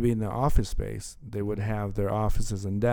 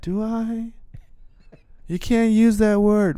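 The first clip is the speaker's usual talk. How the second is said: mock indignant reply; 12 semitones higher, slower than usual. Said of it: "retorting to the Brit".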